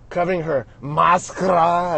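"máscara" with a mock Spanish accent; playful Mexican-style pronunciation of "máscara". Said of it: "as they say in, in Mexican".

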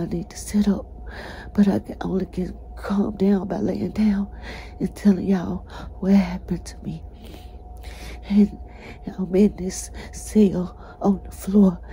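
breathy whispered confession; hushed, worn-out whisper; real whisper. Real, not acted. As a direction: whisper it while lying down, exhausted. Lying down, whispering her story.

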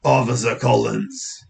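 slow British officer voice; British policeman. Acted. Officer introducing himself to boy, British policeman voice. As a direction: introduce yourself as a measured British bobby. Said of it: "the police officer's British".

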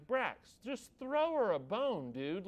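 mildly exasperated plea, voice swooping up; retold fatherly pleading, drawn out; exasperated dad. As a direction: plead with your kid in mock exasperation. Dad pleading with his son.

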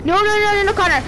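quick high no, no, no; urgent protest. Real, not acted. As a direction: stop him fast, alarmed. Objecting to teammate.

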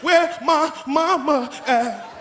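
slow, pitiful question; a lost kid asking for mom; whimpering kid. Retold or imitated. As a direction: plead for your mother. Child asking.

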